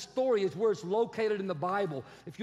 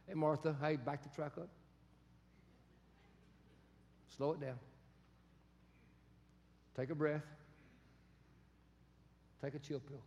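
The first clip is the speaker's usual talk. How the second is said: calm coaching; 8 semitones lower, 9 dB quieter than usual. Retold or imitated. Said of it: "in modern day language".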